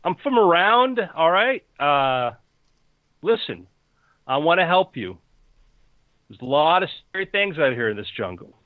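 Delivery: lightly voiced jungle bro, defensive then helpful; slightly put-on wary dude; Steve. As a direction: start high and defensive, settle into an offer of help. Game master plays Steve.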